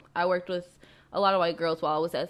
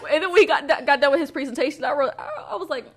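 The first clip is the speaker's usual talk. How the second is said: loud, high, laughing through the words; real laughter bubbling through speech; 6 semitones higher, 7 dB louder, faster than usual. Real, not acted. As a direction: carry on talking while cracking up. Still laughing at the quote.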